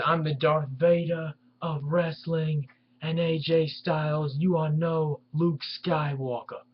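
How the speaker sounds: mild mock Philly accent promo line; Bully Ray impression. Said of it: "My impression was not very good".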